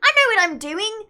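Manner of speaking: high, loud British accent; boastful British-accent demo; put-on British accent. Shown as a demonstration. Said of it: "walking and talking like this".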